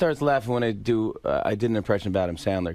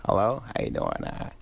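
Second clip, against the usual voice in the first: Adam Sandler; 4 semitones higher, slower than usual. Retold or imitated. Comic retells Sandler answering the phone, lightly imitating him. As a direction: slip into an easygoing comic impression, pitch rising. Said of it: "Adam got on the phone. He's like".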